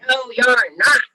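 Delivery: very loud storybook troll; troll's roar. A narrator's reading. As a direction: roar the refusal at a little goat. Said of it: "roared the troll".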